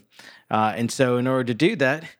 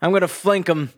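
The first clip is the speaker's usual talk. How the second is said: mock action-hero callouts; 4 semitones higher, 3 dB louder than usual. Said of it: "some classic".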